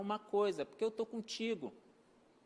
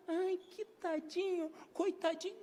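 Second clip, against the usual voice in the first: high, slow, pitying coo; mocking the fussing adult, a high drawn-out pity voice; 7 semitones higher, slower than usual. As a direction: coo over the child like a pitying onlooker. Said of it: "a pessoa fala".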